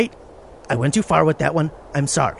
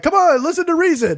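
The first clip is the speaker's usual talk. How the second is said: laughing; 9 semitones higher than usual. Retold or imitated. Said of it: "I wasn't like".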